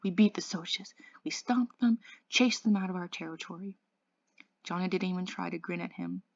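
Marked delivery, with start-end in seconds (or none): 0.0-3.8 panting. Acted. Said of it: "Dally panted".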